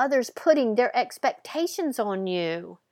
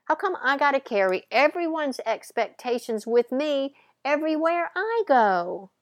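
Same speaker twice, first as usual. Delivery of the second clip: higher, exasperated cry out; crying out to the universe; 5 semitones higher than usual. Retold or imitated. Young woman crying out to the universe, exasperated. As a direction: plead with the universe in frustration. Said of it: "She cried out to the universe".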